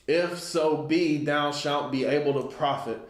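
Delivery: measured, solemn scripture reading; a preacher reading from the pulpit. Acted. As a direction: read the verse like a preacher, slowed. Reads scripture aloud.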